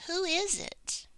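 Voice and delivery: WHO lifted high in a questioning tune; asking a question. Acted. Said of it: "Sam is asking a question".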